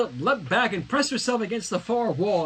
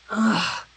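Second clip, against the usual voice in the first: frustrated grunt; 4 semitones higher, 4 dB louder than usual. Acted. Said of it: "Twilight grunted".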